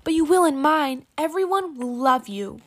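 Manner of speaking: loud, high sweet-talking villain; scheming villain. A narrator's reading. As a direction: coax her like a sly villain. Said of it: "trying to trick her".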